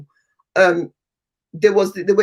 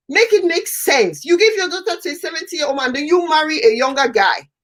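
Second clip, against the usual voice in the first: exasperated disbelief; 8 semitones higher than usual. Real, not acted. Host to guest, baffled by the mother's remarriage, exasperated. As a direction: ask it like nothing adds up anymore.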